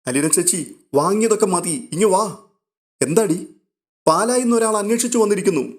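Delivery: lightly voiced girl with urgent news; urgent phone news. Revathikutty and Aleena urgent call.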